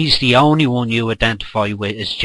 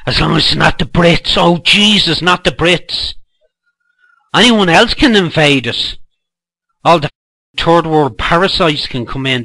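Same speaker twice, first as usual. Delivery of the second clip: higher, louder mock outrage; sarcastic mockery; 5 semitones higher, 5 dB louder than usual. Mocking opponents' view of the Brits, sarcastic. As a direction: ham up their horror at the Brits.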